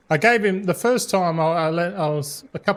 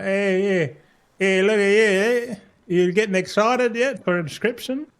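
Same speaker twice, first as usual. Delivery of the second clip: playful voice for the sausage; 4 semitones higher than usual. Pretend. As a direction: coo at the sausage like a pet, a bit higher. Talking to a big sausage.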